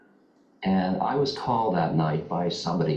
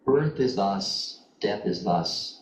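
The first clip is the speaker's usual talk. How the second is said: recited verse; slower than usual. A narrator's reading. Master's death verse recited.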